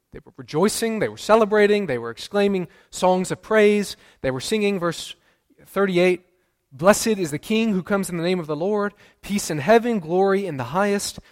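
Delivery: crowd's celebration echoed in the preacher's voice; excited praise. Acted. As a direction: lift the voice like the rejoicing crowd. Describing joyful crowd singing praise.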